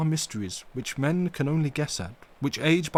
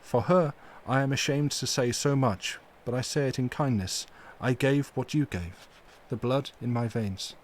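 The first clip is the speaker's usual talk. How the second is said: full of pity; 3 semitones higher than usual. Acted. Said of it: "with an accent full of pity".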